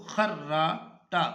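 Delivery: خراٹا said very slowly, doubled ر; careful pronunciation. Shown as a demonstration. Teacher slowly modelling خراٹا for students. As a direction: stretch خراٹا out, lean on the doubled ر. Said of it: "رے مشدد مفتو ہے".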